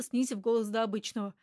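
plain reading voice

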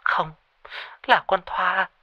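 high, shaky terrified voice on the phone; frightened friend. A narrator's reading. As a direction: tell your friend in panic that Thoa is missing. (giọng hoảng sợ qua điện thoại)

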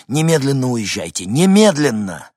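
loud, high, insistent command; urgent order. Acted. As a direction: order them away, stretching the final word. Мужчина приказывает срочно уезжать. (громкий настойчивый приказ)

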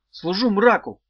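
high, loud military answer; abrupt shout. A narrator's reading. Pupil giving his master an army-style answer, abrupt shout. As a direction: shout it out like a recruit. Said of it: "отрывисто выкрикнул Меф".

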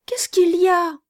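put-on a quick, eager child's whisper; urgent little whisper from a window; child whispering eagerly. A narrator's reading. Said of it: "dit vivement l'enfant".

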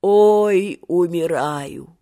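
put-on slow, quavering old man's groan; old man gasping his last; dying old man. A narrator's reading. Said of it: "дребезжащим стариковским голосом".

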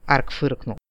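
ordinary delivery, nothing marked

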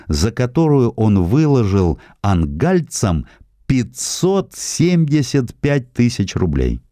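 ordinary delivery

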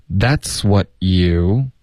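slow "That's what you" with silent T in "what"; dropped T. Shown as a demonstration. Teacher demonstrating the omitted T, slow linked words. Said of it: "然后what的特省略".

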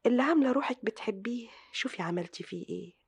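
soft, low voice, partly whispered; guilty murmur to herself. Acted. Sister alone, blaming herself for the wreck: hushed. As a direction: brood quietly over what she has done.

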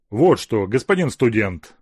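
loud angry snap; bare your teeth at him; snarling. Acted. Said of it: "окрысился Азеф".

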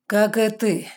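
retort. A narrator's reading. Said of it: "в тон заявил мужчина".

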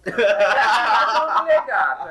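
laughing. Real, not acted. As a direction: laugh the words out. Laughing about villain's hot wife.

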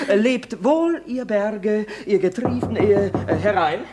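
feigned acting lesson, lightly declaimed; mock recital. Shown as a demonstration. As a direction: pretend to be teaching verse. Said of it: "das müssen Sie anders sprechen".

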